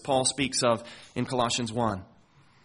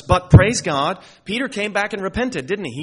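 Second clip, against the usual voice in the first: exultant praise; 5 semitones higher, 7 dB louder than usual. Real, not acted. Preacher exulting.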